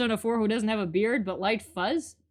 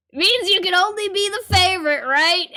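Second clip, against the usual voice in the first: Julio voice; 6 semitones higher, 5 dB louder than usual. Acted. Voicing Julio teasing.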